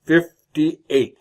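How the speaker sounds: whispered aside to himself; hushed repeat to himself. Acted. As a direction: whisper the number like a secret. Old man repeats his age.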